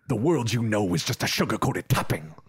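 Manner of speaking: lightly imitated bat voice; a hint of action-hero delivery; Blade. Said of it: "it's his bat voice".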